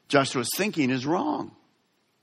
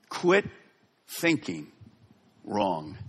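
soft falling charge; 8 semitones lower, 5 dB quieter, much slower than usual. Acted. God's word to discouraged listeners.

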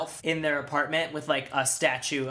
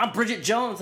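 diva voice; 6 semitones higher than usual. Retold or imitated. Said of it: "She's like".

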